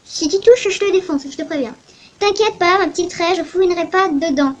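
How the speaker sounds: put-on untrustworthy Russian-accented captain; captain promising not to snoop, shady accent. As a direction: sound sly in a Russian accent. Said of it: "la pas confiance, là, dans, dans ma voix?".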